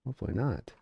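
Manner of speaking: audio cutting out; dropping, broken mic signal; corrupted glitchy audio. Real, not acted. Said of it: "My audio is cutting out".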